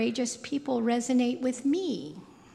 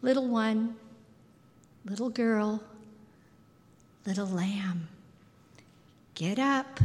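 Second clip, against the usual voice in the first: sweet endearment. Retold or imitated. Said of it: "call her by sweet childhood endearments".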